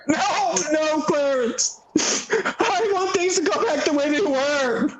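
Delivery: tearful pleading. Acted. George begs Clarence tearfully.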